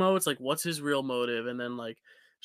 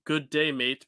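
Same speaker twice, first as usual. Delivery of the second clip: Australian accent; slower than usual. Shown as a demonstration. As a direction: try out the one Aussie phrase you know. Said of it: "the only phrase I know how to say in Australian".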